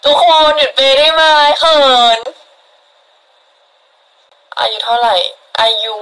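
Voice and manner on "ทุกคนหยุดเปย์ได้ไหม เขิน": flustered protest. Real, not acted. Begging viewers to stop gifting.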